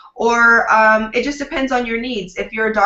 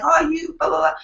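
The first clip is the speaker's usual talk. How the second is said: higher-pitched blah-blah mimicry; dismissive mock quote; 7 semitones higher than usual. Publicist imagining giving up on a nervous client, mock dismissive. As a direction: toss off a high-pitched mock complaint.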